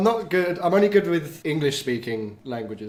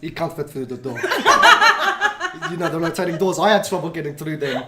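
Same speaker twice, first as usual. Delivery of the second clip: put-on South African accent. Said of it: "all the way from South Africa".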